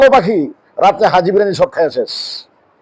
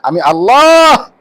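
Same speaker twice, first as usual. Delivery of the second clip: solemn divine voice; 3 dB louder, much slower than usual. Acted. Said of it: "ওরে আমি".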